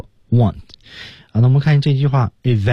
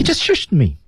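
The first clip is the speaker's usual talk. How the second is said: raised-pitch film complaint; high indignant; 7 semitones higher than usual. Acted. Teacher echoes co-host's line as Marty, high. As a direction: protest lightly in a high voice.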